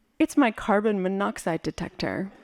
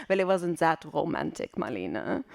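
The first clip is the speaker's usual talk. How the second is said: a touch lower, understated correction; lightly voiced mother; 4 semitones lower, 4 dB quieter than usual. Mother correcting her daughter's film noir fantasy, understated deflation. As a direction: deflate the romance as the mother, dropping away. Mother's dry reply in story.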